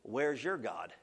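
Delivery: taunting enemy whisper-like murmur. Retold or imitated. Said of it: "the old enemy ever sat on your shoulder".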